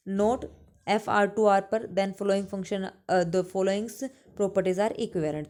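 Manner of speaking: slow, deliberate English definition read for note-taking; slow dictation. Acted. Teacher dictating a theorem to her class, slow and deliberate. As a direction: spell it out slowly so students can copy.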